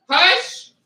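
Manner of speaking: high, loud Hush! thrown out; sharp hush. Real, not acted. Cutting off her barking pups with a hush.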